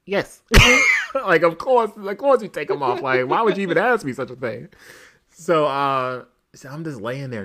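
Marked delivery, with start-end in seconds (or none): 0.0-0.4 higher-pitched imitation of her answer; mock incredulous yes; masseuse's obvious yes. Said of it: "She was like". 1.1-4.7 high, loud imitation of a baffled masseuse; exasperated "obviously", played for laughs; mock incredulity. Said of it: "looked at me like I asked her, like, if aliens fucking existed".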